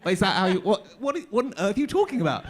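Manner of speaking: loud, high-pitched comic impression; hammed-up, exasperated impersonation of a film star; Michael Caine. Actor mocking the producers' request, hammed-up Caine voice. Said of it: "can you sound like Michael Caine?".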